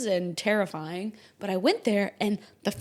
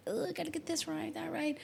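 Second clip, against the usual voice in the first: fretful whisper; 8 semitones higher, 8 dB quieter than usual. Retold or imitated. Anxious perfectionist inner voice.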